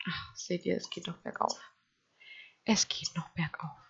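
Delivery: tonlos geflüstert; flüster es zufrieden; Flüstern. Real, not acted. Flüstert leise. (leise geflüstert)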